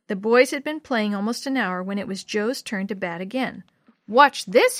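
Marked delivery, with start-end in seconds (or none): 4.1-4.8 louder and higher, calling across the field. Acted. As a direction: call out to show off. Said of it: "he called".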